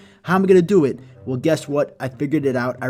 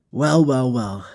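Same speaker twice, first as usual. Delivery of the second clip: smug gloating; much slower than usual. Acted. Gloating villain.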